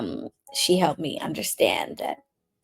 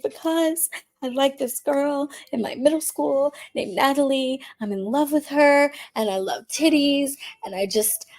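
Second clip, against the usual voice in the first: put-on earnest teen; 7 semitones higher than usual. Younger self explaining her crush.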